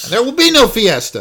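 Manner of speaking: high hammy ghost voice; mock spooky decree; unearthly voice. Ghost voice in recap.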